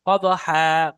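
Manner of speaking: قدحا with bouncing qalqala on the د and a drawn-out ha; قدحا said with an echoing د and long final ha; Quran pronunciation. Shown as a demonstration. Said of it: "দালকে কলকলা করেন আর হাকে টান দেন".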